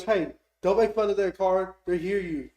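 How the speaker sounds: loud, high redneck reproach; redneck scolding. Retold or imitated. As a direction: holler at your buddy to behave, redneck style. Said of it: "this redneck pulls up".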